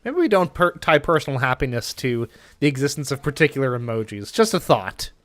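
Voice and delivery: Pegasus. Acted. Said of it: "Channeling Pegasus from, uh, Yu-Gi-Oh!".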